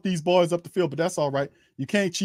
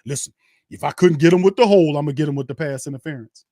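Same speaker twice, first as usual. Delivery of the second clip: loud, scheming referee voice that then speeds up; mock referee; 4 dB louder than usual. Fan mocking a referee's crooked calls, loud mock ref voice. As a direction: mimic a crooked ref bragging about his calls. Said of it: "but I, I call".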